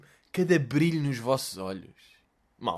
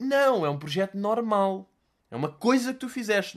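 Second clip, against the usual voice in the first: mocking high voice; 6 semitones higher than usual. Mocking the influencer.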